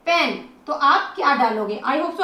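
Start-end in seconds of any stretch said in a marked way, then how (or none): 0.1-0.3 पेन with a brief "e"; very short sound. Shown as a demonstration. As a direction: keep the vowel in पेन short. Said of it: "बिल्कुल short". (पेन छोटी आवाज़ में)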